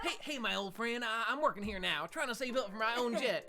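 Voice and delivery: George Bush impression. Player voicing George Bush greeting his old friend, lightly done. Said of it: "It's George Bush".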